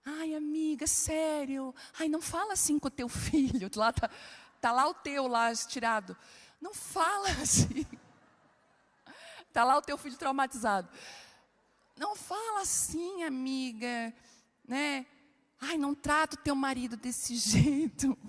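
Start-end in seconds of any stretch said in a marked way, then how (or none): 0.0-3.7 fake-sweet friend. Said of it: "Aí vai lá". 6.6-7.8 mock-sweet advice, laughing. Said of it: "Aí vai lá". 11.9-18.2 mocking a sweet-voiced friend's fake concern; syrupy fake-nice friend. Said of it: "Aí vai lá".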